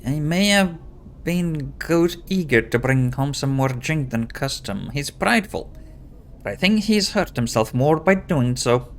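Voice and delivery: worried wife in a mock Scottish accent; pseudo-Scottish accent. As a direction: put on a fake Scottish lilt. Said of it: "a pseudo-Scottish accent".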